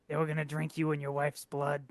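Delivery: low, halting delivery with long pauses; lightly acted last words, trailing and subdued; dying messenger. Player's character breaking bad news while dying, low halting voice.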